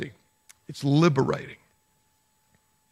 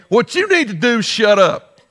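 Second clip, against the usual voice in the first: mock retort; 3 semitones higher, 3 dB louder than usual. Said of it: "Pastor Joel gave me permission to respond".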